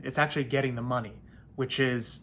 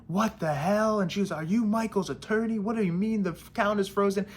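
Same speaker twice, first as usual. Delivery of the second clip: mock angry landlord; 7 semitones higher than usual. Angry landlord calls attorney.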